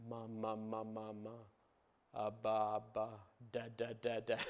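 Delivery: put-on soft, low babbling of a baby's first sounds. Shown as a demonstration. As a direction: coo it like a baby's first word. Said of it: "the first word that a baby says".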